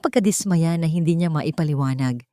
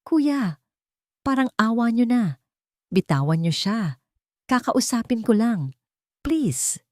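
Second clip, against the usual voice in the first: high, urgent begging; pleading; 6 semitones higher than usual. Acted. Jane begging the guards to release Marco, pleading. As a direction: beg the guards to let go.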